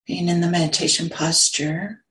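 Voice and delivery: unhurried meditation guidance, long silences between phrases; guided meditation. Real, not acted. Teacher settling a group into sitting posture, guided meditation. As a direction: guide them gently into the sit, phrase by phrase.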